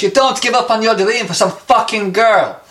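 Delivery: put-on Eastern European accent. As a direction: say it like a blunt Hungarian woman. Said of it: "in a thick Eastern European accent".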